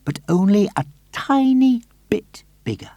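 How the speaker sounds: high, hushed whisper. A narrator's reading. Narrator sharing the trick, whispered. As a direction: breathe it like a conspiracy.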